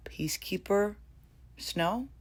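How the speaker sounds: breathless swooning whisper; dreamy fangirl whisper. Real, not acted. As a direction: whisper his title like a crush. Swooning over Tom Blythe's role.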